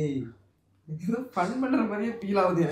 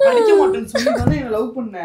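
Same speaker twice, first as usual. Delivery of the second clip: tearful shout; 7 semitones higher, 6 dB louder than usual. Real, not acted. Quarrel, laughing crying.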